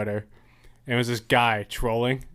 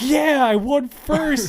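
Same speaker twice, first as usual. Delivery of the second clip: very high, slow, louder put-on voice; gloating troll; 13 semitones higher, 6 dB louder, slower than usual. Troll mocking the racers he knocked out, in a high smug voice. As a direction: stretch out the smug victory in a silly squeaky voice.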